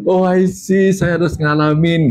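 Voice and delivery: high, drawn-out dawning understanding; acted-out realisation. Speaker grasps why he had to suffer, acted realisation. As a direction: stretch it out as the penny drops.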